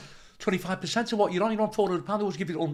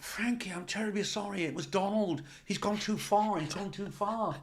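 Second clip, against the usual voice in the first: quiet apology; 3 semitones higher, 6 dB quieter than usual. Retold or imitated. Organiser apologising, voiced in story.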